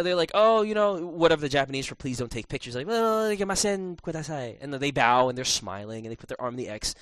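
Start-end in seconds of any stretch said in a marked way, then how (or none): 0.3-4.6 bow and beg politely not to photograph; polite Japanese clerk. Retold or imitated.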